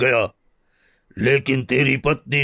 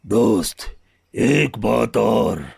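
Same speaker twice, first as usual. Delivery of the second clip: slow; 4 semitones lower, much slower than usual. Acted. Lion's slow, weighty words.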